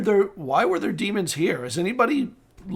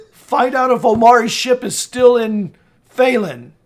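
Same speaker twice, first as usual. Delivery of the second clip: raised but more contained command; firm order; 4 semitones higher, 4 dB louder than usual. Acted. Lord instructing the steward who walked in, firm command. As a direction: give the servant a firm instruction.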